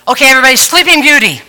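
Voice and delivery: brisk loud teacher call, fast; mock teacher quieting chatty kids; teacher calling the class. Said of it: "she would go".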